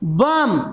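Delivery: बम said low, ending on M with no B; silent B shown. Shown as a demonstration. Teacher asks how it is read, बम with silent final B. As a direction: drop the pitch and close बम on a plain M. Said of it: "इसमें बी का उच्चारण हुआ?".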